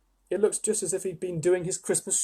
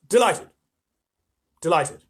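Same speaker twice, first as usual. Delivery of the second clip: mild hammed-up delight; 2 semitones higher, 6 dB louder than usual. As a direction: relish each word. Fawn repeating delight.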